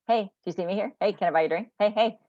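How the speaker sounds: a hint of a pushy drunk at a bar; lightly voiced barfly calling out; loud drunk heckling. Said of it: "I kinda call them the drunk guy at the bar".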